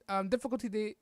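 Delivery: stumbling stutter. Real, not acted. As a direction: stutter and restart the words. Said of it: "I'm sorry for stuttering".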